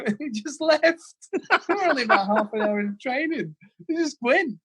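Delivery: high-pitched, helpless real laughter through the words; laughing while talking. Real, not acted. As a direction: barely get the story out for laughing. Cracks up at his own anecdote.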